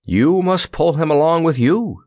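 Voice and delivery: high, earnest instruction. A narrator's reading. Scarecrow hands the soldier the cord, earnest. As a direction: press the point sincerely. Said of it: "directed the Scarecrow earnestly".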